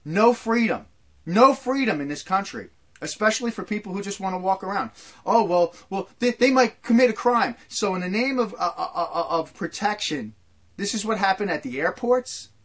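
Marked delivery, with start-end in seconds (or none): 5.2-7.6 mock alarmed neighbor. Mocking fearful neighbors.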